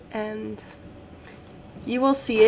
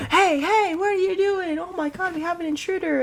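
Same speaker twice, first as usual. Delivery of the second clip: higher hammed-up trooper alarm; imitating a guard who spots an intruder; mock stormtrooper; 9 semitones higher than usual. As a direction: play a startled guard raising the alarm. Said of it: "And he's just like".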